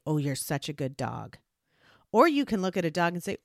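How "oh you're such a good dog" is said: low, quiet, displeased mutter; bad angry tone. Shown as a demonstration. Owner scolding a dog with kind words, low angry tone. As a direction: praise the dog in a low, cross voice. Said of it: "with a bad tone of voice and an angry face".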